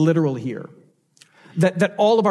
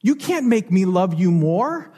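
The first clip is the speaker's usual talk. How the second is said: gentle echo, rising at the end. Retold or imitated. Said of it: "you would look that child in the eyes and you would say".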